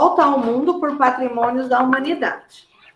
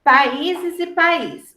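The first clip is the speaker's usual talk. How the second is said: países e país read out slowly and evenly; países e país, spaced out word by word; slow dictation; much slower than usual. Shown as a demonstration. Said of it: "separá-las em sílaba".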